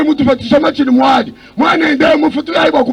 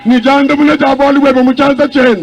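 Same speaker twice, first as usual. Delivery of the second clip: interpreter echoing the preacher with force; interpreted sermon. Acted. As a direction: carry the preacher's lines into the local tongue.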